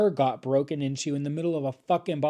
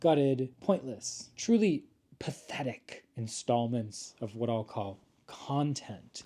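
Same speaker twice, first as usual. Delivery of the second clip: mock grim; slower than usual. Mock grim announcer description.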